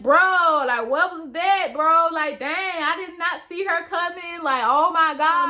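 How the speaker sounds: high, stunned disbelief; amazed friend. Retold or imitated. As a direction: gasp it out in disbelief. Homeboys' amazed reaction.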